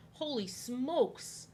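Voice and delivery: slow, drawn-out holy smokes; startled gasp. Real, not acted. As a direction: let the fright hang in it. Startled by thunder.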